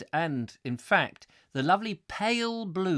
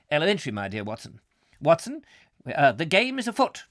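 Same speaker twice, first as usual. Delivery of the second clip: Holmes; 4 dB louder, faster than usual. Acted. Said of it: "I would love to have played Holmes".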